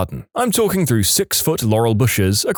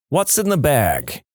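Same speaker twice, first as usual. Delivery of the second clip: put-on Jersey accent; 3 semitones higher, slower than usual. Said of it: "in a really heavy Jersey accent".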